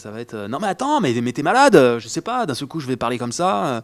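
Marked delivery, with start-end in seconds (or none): 0.5-1.8 high, loud, frantic rapid-fire babble. Showing how he'd voice Edward Norton as someone a bit crazy: fast frantic Edward Norton voice. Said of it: "et qui parle très vite".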